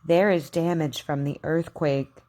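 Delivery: careful teacher model sentences, KW sound stressed; over enunciating. Shown as a demonstration. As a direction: say each word clearly for learners to repeat. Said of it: "Repeat after me".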